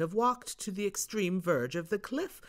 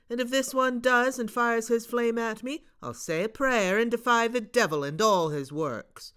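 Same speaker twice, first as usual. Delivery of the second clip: put-on high, loud, plucky boy; bold Bob; 6 semitones higher, 7 dB louder than usual. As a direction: defy the ghost with bravado.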